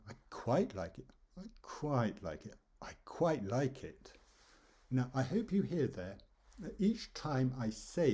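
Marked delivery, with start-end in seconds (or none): 0.1-2.6 QUITE leaned on, then falling; stress on QUITE. Shown as a demonstration. Teacher playing with meaning through voice, stress on QUITE. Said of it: "a bit of stress". 2.8-4.2 slow "quite like it", words sounded longer; drawn-out words. Shown as a demonstration. Teacher showing meaning shifts with voice, words drawn out slowly. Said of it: "sounding the word more".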